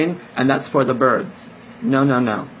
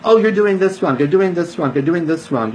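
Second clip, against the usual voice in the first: mock critic; 3 semitones higher than usual. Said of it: "people wanna tell us".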